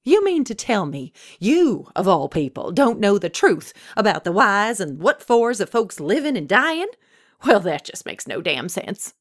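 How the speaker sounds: high, emphatic swoops of outrage; indignant scolding. A narrator's reading. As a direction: berate him, stressing word after word. Old woman scolds Death in disbelief.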